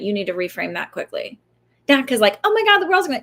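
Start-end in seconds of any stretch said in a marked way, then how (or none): 2.4-3.2 higher, louder hammed-up panic; a jokey freak-out about a small slip; mock panic. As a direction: play it like the sky is falling.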